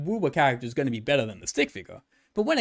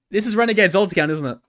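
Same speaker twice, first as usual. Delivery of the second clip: fast, louder teasing accusation; playful accusation; 3 semitones higher, 6 dB louder, faster than usual. Real, not acted. Streamer teases Renegade about his alt account, playfully accusing. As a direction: nail him with it, grinning.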